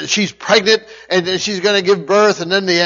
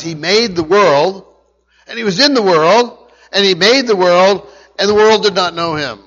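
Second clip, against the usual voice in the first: rising preaching; 2 semitones higher, 6 dB louder than usual. Acted. Building sermon climax on creation.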